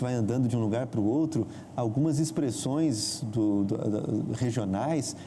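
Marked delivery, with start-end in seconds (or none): none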